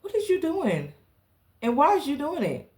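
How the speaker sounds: high, disbelieving "what is you doing"; incredulous confrontation. Retold or imitated. Narrator to naked coworker, high incredulous demand. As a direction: call her out, shocked at the sight.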